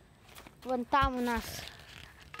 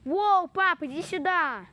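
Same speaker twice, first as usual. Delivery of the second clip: yelling across the room; 5 semitones higher, 6 dB louder than usual. Real, not acted. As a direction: call Воу, пап loud across the room. Calling dad from across room.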